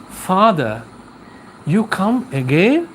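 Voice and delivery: lightly acted wife, "again" rising into a question; the sick man's wife greets the priest, mildly puzzled; wife's question. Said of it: "And she asks like this".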